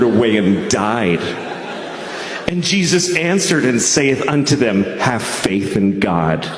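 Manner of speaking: solemn Bible-reading voice, measured; scripture reading. Acted. Comic reading scripture to the crowd, solemn Bible voice. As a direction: read it like a preacher at the pulpit. Reads scripture in King James style.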